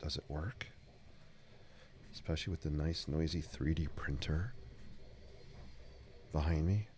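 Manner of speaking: ASMR voice. Pretend. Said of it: "I'm trying to do an A S M R voice".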